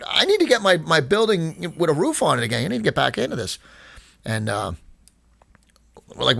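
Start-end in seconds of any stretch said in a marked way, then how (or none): 0.1-3.6 higher, exasperated retold complaint to the roofers; frustrated outburst. Retelling how he complained to the roofers, mildly exasperated and higher. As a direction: pitch it up in mild mock exasperation. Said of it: "And I'm, and I'm really frustrated".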